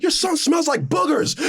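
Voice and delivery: high, slow taunting voice; mock cartoon insult.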